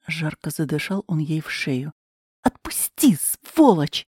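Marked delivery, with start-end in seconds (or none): 2.4-4.1 крик. Acted. Героиня вырывается и кричит.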